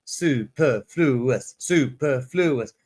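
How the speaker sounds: "Superfluous" slowly split as su-per-flu-ous; syllable-by-syllable pronunciation. Shown as a demonstration. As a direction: teach "Superfluous" one drawn-out syllable at a time. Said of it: "Repeat after me".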